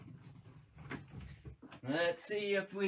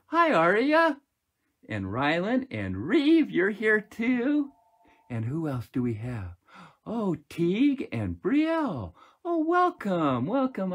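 loud greeting; 3 semitones higher, 9 dB louder than usual. Real, not acted. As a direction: call out each name with joy. Loud welcome to children.

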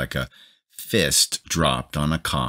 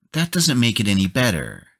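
high, quick, upset scolding wife; wife scolding her husband, high and upset; 8 semitones higher, faster than usual. A narrator's reading. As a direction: scold him, hurt about the house. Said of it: "she said in an upset, scolding voice".

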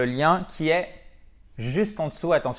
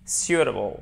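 SUITABLE with the stress marked, pitch falling after it; stressed syllable shown; 2 semitones lower than usual. Shown as a demonstration. Teacher showing learners the tonic accent, stress marked on SUITABLE. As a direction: model word "suitable", stress clearly placed. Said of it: "Vous avez l'accent tonique ici".

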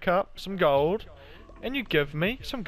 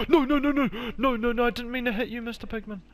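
panicked no no no; 8 semitones higher than usual. Real, not acted. Accidentally hits a pig.

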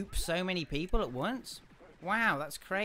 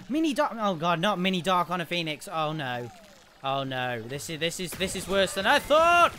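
panicking gamer; 3 dB louder than usual. Real, not acted. Dangerous enemy appears.

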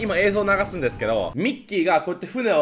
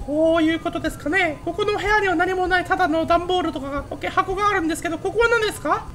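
held high, cartoonish commentary voice; 11 semitones higher than usual. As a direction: keep the whole run up in a squeaky mouse register. Plays game in high voice.

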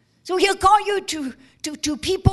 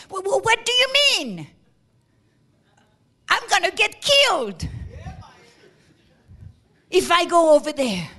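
mock panic; 2 semitones higher, 3 dB louder than usual. Cornelius balking at the errand, frightened stammer. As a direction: stammer in alarm.

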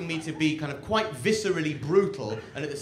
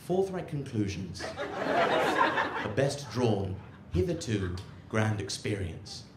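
lightly voiced pompous donkey; a hint of a solemn orator, quiet and measured; mock-profound speech with weighty pauses; talking donkey; 4 semitones lower, 4 dB quieter than usual. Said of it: "and the donkey says".

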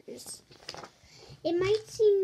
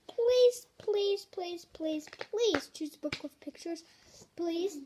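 mock pleading. Reader begging the kid for a picture book, mock pleading.

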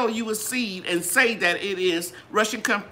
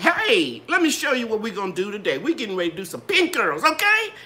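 lively teacher. Shown as a demonstration. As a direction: perk up and pull the students in. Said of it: "if I started talking like".

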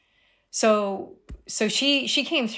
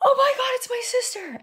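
high, breathless oh my God; awed realisation; faster than usual. Retold or imitated. Recognising her sister in the cat, high amazed realisation. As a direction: say it as the truth hits you.

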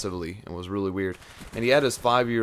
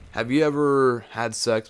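mock questioner; 4 semitones higher, 6 dB louder, slower than usual. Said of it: "Be like".

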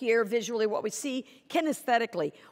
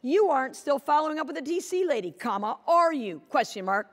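accusing reading; 2 semitones higher than usual. Shown as a demonstration. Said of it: "Same punctuation".

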